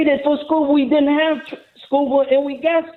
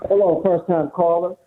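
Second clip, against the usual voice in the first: muffled phone line; underwater; 5 semitones lower than usual. Real, not acted. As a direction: caller on a bad speakerphone. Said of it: "it kinda sounds like you're underwater".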